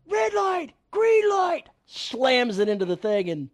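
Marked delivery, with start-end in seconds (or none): 0.1-1.7 high loud shouted "Red light, green light"; movie villain line. Retold or imitated. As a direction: shout it like an action hero.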